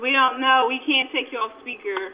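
faint voice on speakerphone. Real, not acted. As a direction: sound far from the phone mic. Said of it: "I can't hear either of you".

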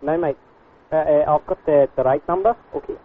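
put-on Scottish customer with a complaint; Scottish lilt drifting into Australian; Scottish accent. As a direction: do a muddled Scottish accent on a prank call. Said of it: "I screwed up on the accent".

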